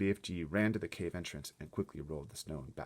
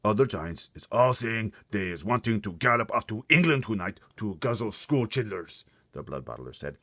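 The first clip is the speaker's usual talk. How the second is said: louder, higher gloating giant voice; taunting giant; 4 semitones higher, 9 dB louder than usual. Acted. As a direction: taunt him with relish. Bloodbottler taunts.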